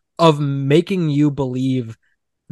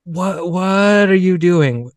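mock baffled; 4 semitones higher, slower than usual. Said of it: "the other actors being like".

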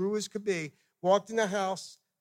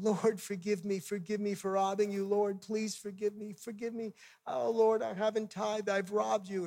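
a touch of tearful pleading; softly plead, mimicking her crying; retold tearful prayer; 2 semitones higher, 4 dB quieter than usual. Young woman begging the Lord's forgiveness, imitated tearful pleading. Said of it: "she's crying and saying".

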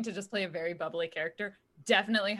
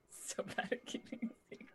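unvoiced whisper; 3 semitones higher, 11 dB quieter than usual. Real, not acted. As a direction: breathe it out as an aside. Aside after blurting secret.

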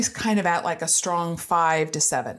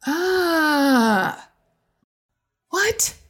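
dismayed cry; 10 semitones higher, 4 dB louder than usual. Retold or imitated. In car, dismayed.

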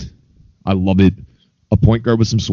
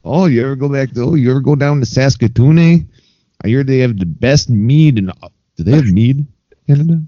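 lightly hammed-up Canadian voice, higher and chatty; mock Canadian accent; 5 semitones higher than usual. Cohost goofing off in a put-on Canadian accent. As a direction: play a jokey Saskatoon local bragging about his town.

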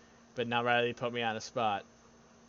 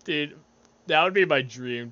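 usual speaking voice

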